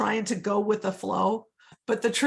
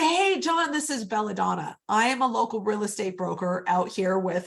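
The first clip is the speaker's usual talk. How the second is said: friendly greeting. Shown as a demonstration. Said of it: "And I'll say".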